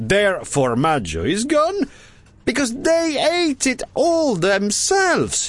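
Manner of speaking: very high, cried-out outburst. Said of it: "he cried".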